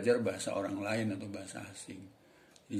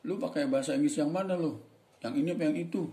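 mock boss; 6 semitones higher, faster than usual. Imagined boss at job interview.

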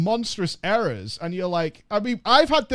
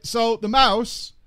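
"So the mouse" drawn out slowly for effect; slow repeat; 4 semitones higher, 5 dB louder, much slower than usual. Shown as a demonstration. Streamer restarting the story for viewers, slowed and drawn out. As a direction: stretch out "So the mouse" to set up the punchline.

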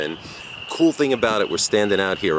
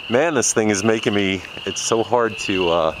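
talking through a mask; muffled by mask. Real, not acted. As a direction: speak muffled behind a face mask. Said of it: "This thing's pinching my nose".

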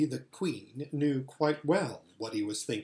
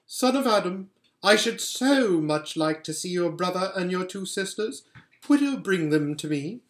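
a hint of a sweet, commanding queen; lightly voiced White Witch queen; 4 semitones higher, 3 dB louder than usual. Queen asking Edmund to bring his siblings, lightly regal. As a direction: coax the boy like a regal enchantress.

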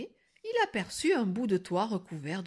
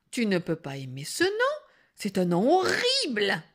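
building to a loud last word; baffled protest; 4 dB louder than usual. Acted. Stunned girl argues with the wolf, baffled. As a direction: object in mild disbelief.

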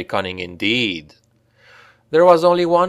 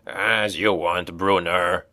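slow, softer sly dwarf; 3 semitones lower, 5 dB quieter, slower than usual. A narrator's reading. Dwarf pretending to agree with Brunner, sly soft voice. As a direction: smile under the beard, softer.

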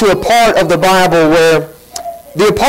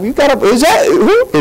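high, blurting mock voice; hammed-up loudmouth fisherman; mock Peter blurting; 8 semitones higher than usual. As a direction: pitch way up like a brash fisherman butting in. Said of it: "always opening his mouth up".

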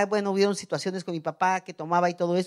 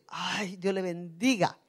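meek blessing; 5 dB quieter, slower than usual. Acted. Voices meek reply to an offence.

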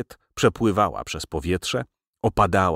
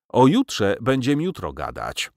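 yawning last word; 5 semitones higher than usual. Acted. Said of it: "Ostatnie słowo zachrypiało w ziewnięciu".

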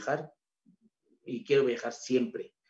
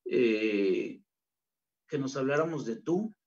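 ordinary delivery

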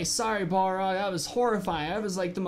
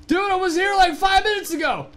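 high, loud exasperated yell; frantic shout; 9 semitones higher, 8 dB louder than usual. Real, not acted. Gamer yelling at the game that his pet vanished, loud and high. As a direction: shout it out in disbelief.

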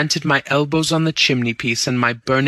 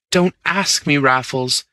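higher, begging appeal; pleading; 3 semitones higher than usual. Acted. Bunny begging Raffles not to ask again: higher pleading. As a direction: plead with him, a pitch up.

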